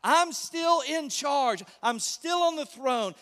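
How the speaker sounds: lightly voiced God overruling his enemies; God's voice. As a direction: declare it slowly with calm authority. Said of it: "God says".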